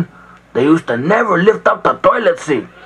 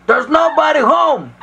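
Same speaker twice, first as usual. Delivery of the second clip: higher pig's call through the door; mild yell; 6 semitones higher than usual. Acted. First little pig to the landlord at the door, mild yell. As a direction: call out high, without much more volume. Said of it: "yelled out".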